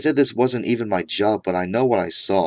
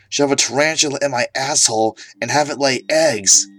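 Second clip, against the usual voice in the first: reading a script; 3 semitones higher than usual. Retold or imitated. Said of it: "trying to read his script".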